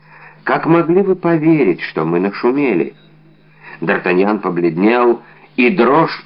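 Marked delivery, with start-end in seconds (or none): 0.4-3.0 мягкий упрёк другу; укоризненно, без нажима; с упрёком. Acted. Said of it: "с упрёком сказал Арамис". (лёгкий укор)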